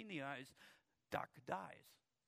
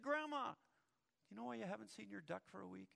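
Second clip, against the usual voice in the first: much higher, blurted fast; boy finally confessing to Grandma in a rush; desperate confession; 5 semitones higher than usual. Acted. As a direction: spill it all at once. Johnny bursts out confessing.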